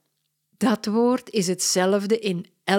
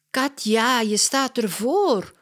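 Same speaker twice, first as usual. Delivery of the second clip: put-on higher, louder annoyed child; angry call; 6 semitones higher, 3 dB louder than usual. Mia yells at Katja blocking the TV, annoyed. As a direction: snap at her to move aside. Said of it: "roept Mia boos".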